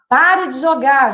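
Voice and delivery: put-on mother stopping a child throwing; stern command. Shown as a demonstration. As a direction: lay down the rule firmly. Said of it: "Ao invés de a gente falar".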